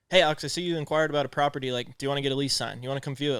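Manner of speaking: brisk, rapid-fire phone pitch; fast cutthroat opener, no small talk; cutthroat sales pitch. Acted. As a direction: rush straight into the ask like a pushy caller. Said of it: "just so cutthroat".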